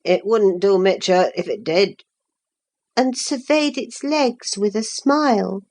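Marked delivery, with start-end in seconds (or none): 0.0-2.0 low, rough Yorkshire farmhand voice; a coarse Yorkshire lad answering back; vulgar Yorkshire accent. Acted. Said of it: "He answered in his vulgar accent".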